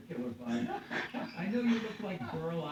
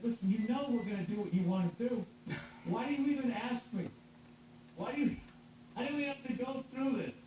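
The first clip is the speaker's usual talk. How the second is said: laughing; 7 semitones higher than usual. Retold or imitated. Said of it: "So I just laughed my whole way through it".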